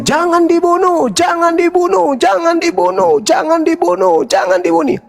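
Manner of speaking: high-pitched repeated protest chant; crowd shouting. Acted. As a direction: act out a crowd crying out in protest. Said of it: "orang Islam sudah pasti teriaknya". (teriakan massa bernada tinggi)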